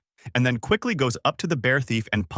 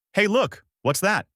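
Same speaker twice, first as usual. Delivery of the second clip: shouting out; 10 semitones higher than usual. A narrator's reading. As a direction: point and call out across the beach. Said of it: "Bulma shouted out".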